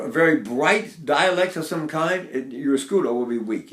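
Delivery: ordinary talk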